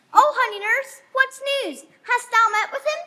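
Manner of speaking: put-on a girl begging her nurse for news, excited; eager excitement.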